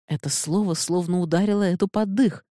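plain reading voice

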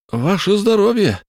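hearty high toast; exhaled toast. A narrator's reading. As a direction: breathe out a cheer. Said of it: "выдохнул первый Фнул".

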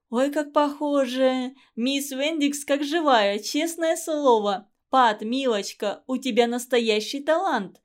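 delighted. Acted. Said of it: "восторгалась Мэри".

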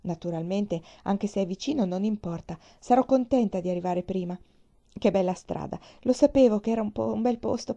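put-on a little girl bubbling with excitement on the ride; lightly voiced excited girl; eager little girl. Child Pollyanna chattering on.

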